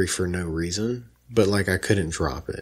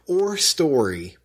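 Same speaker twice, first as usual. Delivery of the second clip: all caps; 4 semitones higher, slower than usual. Shown as a demonstration. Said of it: "all caps are back".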